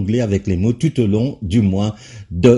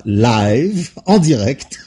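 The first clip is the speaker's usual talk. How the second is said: laughing; much slower than usual. Real, not acted. Host laughs at his own joke.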